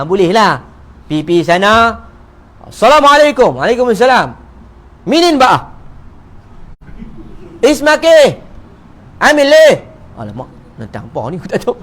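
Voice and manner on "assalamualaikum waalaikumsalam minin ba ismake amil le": Arabic dialect. Retold or imitated. Arabs speaking dialect to him.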